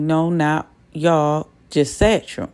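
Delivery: slow, cold and curt; mean way. Retold or imitated. Father cutting off his excited kids, slow and mean. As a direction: shut the kids down slowly and coldly. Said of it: "he said it in a mean way".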